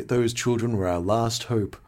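slow, a touch of gloom; lightly imitated doom, understated; mock despair. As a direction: drag it out like all hope is gone. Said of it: "he's so depressed".

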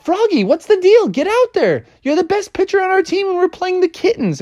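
high, pushy voice, fast at the end; urging teammates. Acted. Teammates urging Froggy to pitch, high and pushy. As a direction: hurry him onto the mound.

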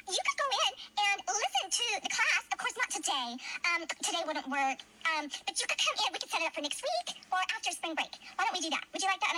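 lightly imitated smiling principal; a hint of a sweet, placating smile. Mother mimicking the principal's smiling offer, lightly. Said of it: "talking with a smile on her face".

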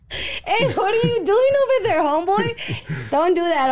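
hey, call out to it. Real, not acted. Calling out at noise.

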